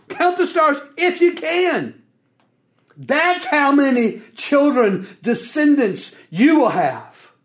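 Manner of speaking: God gently mocking the impossible count; sarcastic. Preacher voices God telling Abram count the stars, sarcastic. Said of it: "I love it when God gets sarcastic".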